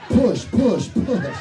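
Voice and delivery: loud, high cries of push; mock straining. Comic acting out a straining exam, loud.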